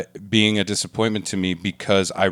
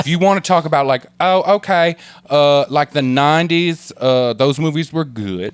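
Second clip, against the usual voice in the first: higher, drawn-out comic character; put-on character voice; 6 semitones higher, 3 dB louder than usual. Character weighing up nineties movies, put-on voice. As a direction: ponder it slowly in a silly high voice. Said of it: "you can't do this voice".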